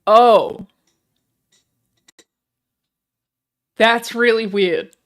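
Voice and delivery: loud, slow shocked realisation; aghast, drawn out. Real, not acted. Realising searched words.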